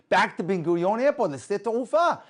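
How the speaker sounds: loud, high-pitched declaration; retold eager order to the driver; excited announcement. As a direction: announce the destination triumphantly. Man announces his sudden destination.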